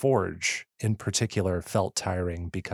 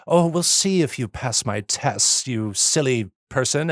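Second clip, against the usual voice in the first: mustache twirling villain; 3 semitones higher, 3 dB louder than usual. Retold or imitated. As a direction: tease like a hint of a scheming villain. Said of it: "mustache twirling".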